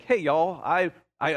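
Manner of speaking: imitating a friend's Southern accent. Preacher quoting his friend to the congregation, light Southern accent. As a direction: try a brief, half-hearted Southern accent. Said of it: "he has a southern accent".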